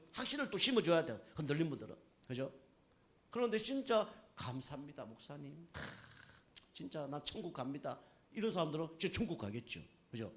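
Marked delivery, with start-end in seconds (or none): 4.3-8.0 softly acted dying believer's thanks; quiet, heartfelt mock deathbed words; hushed grateful testimony.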